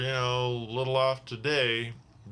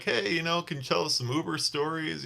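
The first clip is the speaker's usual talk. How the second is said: higher, lightly voiced drunk college guy; imitating drunk passengers; 6 semitones higher than usual. Drunk passengers asking the driver for stories, lightly mimicked. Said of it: "they're like".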